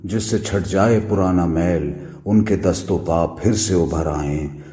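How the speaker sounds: measured Urdu poetry recital; poem recitation. Acted. Reciter performs Noon Meem Rashid's poem, measured recitation. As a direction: recite it line by line, letting phrases fall.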